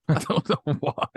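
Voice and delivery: laughing, high mock Texas twang. Mocking douchebag sound guys in a Texas twang. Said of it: "they all talk like this".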